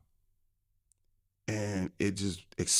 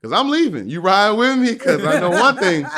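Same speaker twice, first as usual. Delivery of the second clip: loud, much higher panicked calls; retold panic, shouted high; alarmed shouting; 7 semitones higher, 8 dB louder than usual. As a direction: yell to get his attention. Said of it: "I was mad for real".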